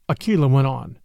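plain reading voice

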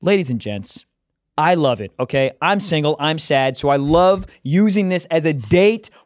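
casual sponsor read with bursts of hype; lightly hyped ad read. Acted. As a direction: sell the meal kit like a buddy, a bit pumped. Reads a HelloFresh ad.

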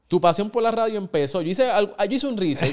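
laughing. Real, not acted. Host teases guest with research.

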